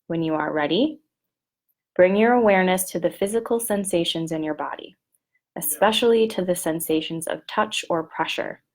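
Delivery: measured script reading with long pauses; unhurried instructions, leaving room to breathe; guided body scan. Shown as a demonstration. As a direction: lead listeners through a meditation, phrase by phrase.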